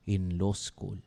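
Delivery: slow cold whispered finish; hushed contempt. Retold or imitated. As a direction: breathe the last words out cold. Whispered end of insult.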